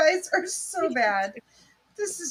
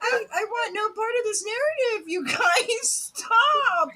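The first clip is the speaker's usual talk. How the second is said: laughing protest; 5 semitones higher than usual. Real, not acted.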